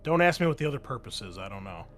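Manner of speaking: usual speaking voice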